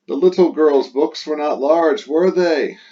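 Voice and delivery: high, leading tag question expecting no. Shown as a demonstration. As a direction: steer the listener toward no. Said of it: "We're asking a question, and we're trying to influence the answer".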